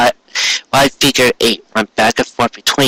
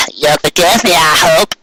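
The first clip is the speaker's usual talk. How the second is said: a chirpy country grandma; old Granny Smith voice; 4 semitones higher than usual. Acted.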